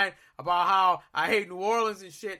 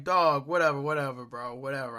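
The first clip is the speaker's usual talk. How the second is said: fed up; 8 semitones lower than usual. Retold or imitated. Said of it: "I'm like".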